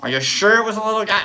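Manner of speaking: Larry David interrogation. Retold or imitated. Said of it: "I'm Larry Daviding these".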